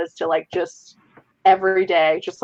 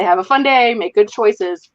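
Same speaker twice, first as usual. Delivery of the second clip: put-on mildly raised voice calling after kids; retold loud send-off; 2 semitones higher, 3 dB louder than usual. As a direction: imitate yourself calling out a cheery parental send-off. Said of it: "really loud".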